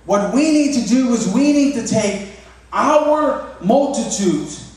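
lightly voiced earnest kid; child voice. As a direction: daughter explaining how to end hunger. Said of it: "And she goes".

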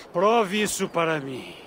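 put-on slurred, slow drunken lines. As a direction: sound like the town drunk. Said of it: "do nada ficou com voz de bêbado".

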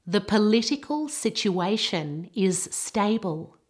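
"political" stressed on the second syllable, "stable" with gliding A; careful word stress. Shown as a demonstration. Teacher has learners copy, clear stress on "political" and vowel in "stable". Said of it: "practice those words with excellent stress".

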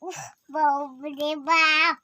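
loud, slow, dragged-out mock sigh; child overdoing mom's exasperated sigh; hammed-up whine. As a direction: stretch the fuss out theatrically. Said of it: "অত ভ্যাকা করতে হবে না".

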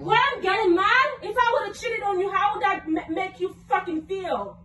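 heated, indignant retort; real anger at a cheating partner; mad. Real, not acted. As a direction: throw the question back angrily. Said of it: "Why you getting mad for?".

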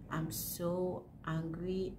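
"so" drawn out, said slowly; slow, stressed so. Real, not acted. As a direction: lean on "so", slow the whole line.

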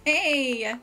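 slow, tearful cry of joy; excited. Real, not acted. To viewers, overjoyed at getting the DIY, crying happily. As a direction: drag it out, near tears with happiness. Announcing a long-awaited item.

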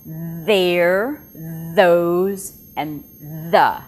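there, those, the with a buzzing TH; tongue between teeth and let it vibrate on there; voiced TH examples. Shown as a demonstration. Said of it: "and that would be".

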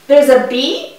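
ordinary talk, nothing marked

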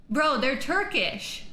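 loud, slow, emphatic insistence; loud thrilled insistence; excited. Real, not acted. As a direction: drive it home loudly. Repeats claim, still thrilled.

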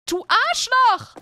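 slow, loud furious insult; angry. Pretend. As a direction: hurl the insult in rage. Angry outburst at character.

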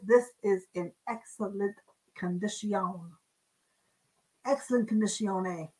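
low, hammed-up Italian ending; mock Italian accent. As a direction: say it like a playful fake Italian. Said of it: "Now she's got her Italian".

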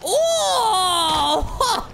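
sudden high startled oh; surprised cry. Real, not acted. Gamer reacts to the fall with a startled cry. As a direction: yelp as Spider-Man crashes.

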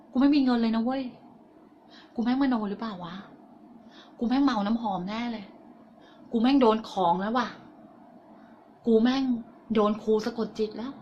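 softly acted anxious self-doubt; little inner voice. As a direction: worry quietly to yourself, like a voice in your head. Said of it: "เสียงเล็กๆของฉันที่มันดังอยู่ในหัวสมอง". (เสียงเล็กๆ ในหัว บ่นกังวลเบาๆ)

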